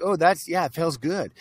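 gentle, soft little suggestion; soft light voice. Retold or imitated. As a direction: breathe it lightly like a quiet nudge. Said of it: "It's very small. It's very light".

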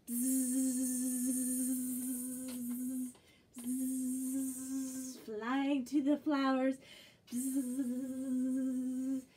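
long buzzing bzzz; bee buzz. Acted. Teacher buzzing as a bee for children. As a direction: buzz like a bee flying to flowers. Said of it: "How about a bee".

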